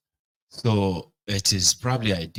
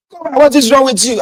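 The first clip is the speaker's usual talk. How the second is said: high, loud scolding shout; shrieking rebuke; outraged scolding; 10 dB louder, faster than usual. Retold or imitated. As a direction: yell at him for slapping a child. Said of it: "You slap the boy like".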